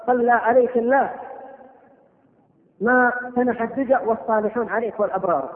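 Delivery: measured, chanted reading of classical verse; poem recitation. Acted. Preacher reciting an old elegy to the congregation, measured and solemn. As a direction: recite the elegy with weight and rhythm.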